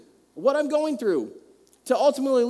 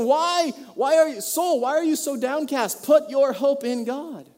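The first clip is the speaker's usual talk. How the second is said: higher and louder, urgent pleading questions; preaching to himself; 5 semitones higher, 5 dB louder than usual. Retold or imitated. Psalmist urgently preaching to his downcast soul, loud. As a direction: rouse your own downcast soul. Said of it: "They're talking to themselves here".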